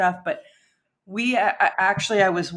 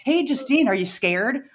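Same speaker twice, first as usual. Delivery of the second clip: higher-pitched retold taunt; mock yell from the back; 6 semitones higher than usual. Bandmate needling Justine from the back seat, mock yell. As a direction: imitate a backseat screamer, without full volume. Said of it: "she was just screaming it in the back".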